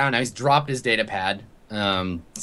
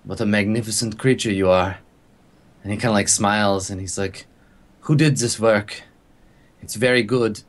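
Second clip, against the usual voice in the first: awed admiration; 3 semitones lower than usual. Acted. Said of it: "distracted by something else".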